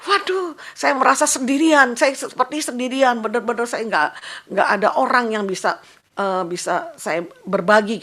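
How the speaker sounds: loud, high-pitched cry of loneliness, retold; retold distressed lament. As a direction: exclaim it like an isolated patient's complaint. Retelling a patient's lonely lament.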